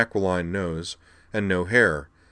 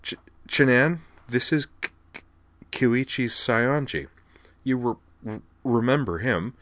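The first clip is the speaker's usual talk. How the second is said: higher voice, snagging on first sounds; stammering; 4 semitones higher than usual. A narrator's reading. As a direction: introduce someone while tripping over word beginnings. Kate's stutter voiced in story.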